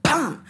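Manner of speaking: short "bam" for a gunshot; imitated gunshot. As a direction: voice a sudden shot at the ceiling. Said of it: "had the gun and the shot".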